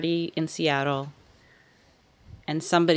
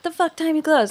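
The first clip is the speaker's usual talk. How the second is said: higher, laughing rude question; blunt laughing question; 10 semitones higher than usual. Retold or imitated. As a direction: blurt it out, cracking up. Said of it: "before I'm like".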